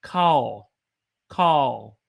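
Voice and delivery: "call" with the a held longer; long, stretched "call"; Southern held vowel. Shown as a demonstration. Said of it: "you hold it a little bit longer".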